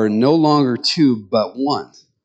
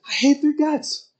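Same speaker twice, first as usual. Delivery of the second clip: acted exasperation; 13 semitones higher than usual. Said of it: "other days you look at them and go".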